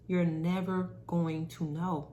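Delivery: slow, deliberate restatement; slow emphatic repeat. Shown as a demonstration. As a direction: let it sink in slowly. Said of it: "Let me say that one more time".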